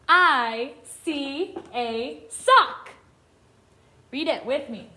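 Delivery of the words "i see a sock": very slow, separated words; each word stretched with a gap after; word-by-word reading. Shown as a demonstration. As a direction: read it out slowly for beginners to follow. Modelling reading for young children.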